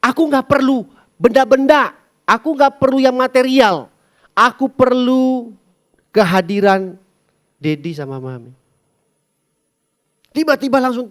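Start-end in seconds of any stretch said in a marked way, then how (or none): 0.0-8.5 put-on high, loud child's plea. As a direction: plead like a needy little boy. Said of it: "anak saya mau bilang gini".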